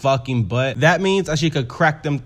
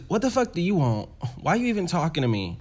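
higher mock-indignant retort; imitating defeated Candy; 4 semitones higher, 4 dB quieter, faster than usual. Defeated Candy rebuffing Angel outside, high and indignant. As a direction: play her put out, pitched up. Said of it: "Candy says".

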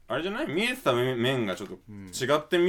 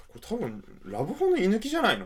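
higher-pitched mock mother voice, blunt and offhand; mother's blunt remark; 10 semitones higher than usual. Son imitating his mother's rude remark about the inn, higher. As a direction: toss off the tactless guess like mom. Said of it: "最低な一言を放ち".

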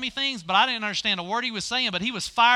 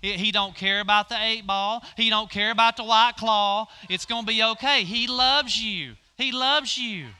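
tender pastor. Acted. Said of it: "The pastor is telling her".

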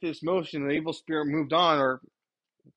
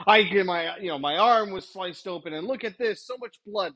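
hammed-up exaggeration, slightly raised pitch; mock dramatic; 3 semitones higher than usual. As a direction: overstate a tiny injury as a disaster. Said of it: "hyperbole ... it is, uh, dramatic talk".

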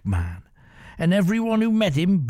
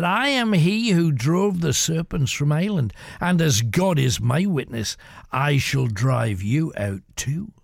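steady conviction, no raised voice; calm. Acted. Bishop calmly vows to drive the pirate out. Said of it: "Calmly, the bishop stood up".

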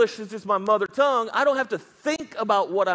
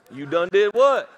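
louder, puzzled asking back; puzzled question; 2 semitones lower, 4 dB louder than usual. Retold or imitated. Pastor asking a churchgoer what he did, puzzled. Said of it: "first ask".

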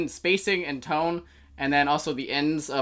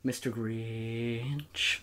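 monotone; 6 semitones lower, 7 dB quieter, much slower than usual. Shown as a demonstration. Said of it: "monotone tone".

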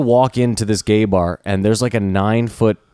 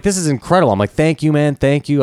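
higher, overjoyed gratitude; elated thanks; 5 semitones higher than usual. Retold or imitated. Thanking the cab driver for the wallet, elated. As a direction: gush with relief.

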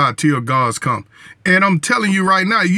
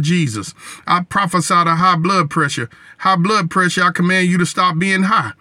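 fervent prayer. Acted. Leads a healing prayer.

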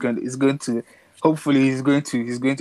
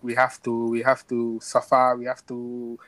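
put-on light Italian accent, drawn out on suffer; imitating an Italian coach's accent. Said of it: "in that Italian accent".

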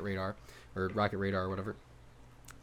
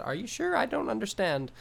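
put-on much higher-pitched voice, missed Australian accent heard as Asian; botched Australian Siri; 10 semitones higher than usual. Retelling the phone assistant's confused reply to a co-host, botched Australian accent. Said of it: "Why'd you do that in an Asian accent".

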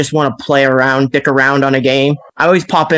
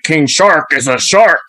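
slow cartoon shark voice; drawn-out mock shark catchphrase; imitating King Shark. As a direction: announce it slowly like a simple shark. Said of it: "every time he walks around".

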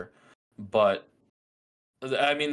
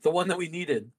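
excited; 8 semitones higher than usual. Retold or imitated. Joins the producers' quote.

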